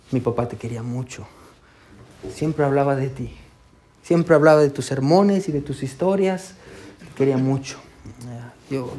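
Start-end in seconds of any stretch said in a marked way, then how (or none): 0.1-7.8 tender. Retold or imitated. Grieving daughter quoted at father's funeral.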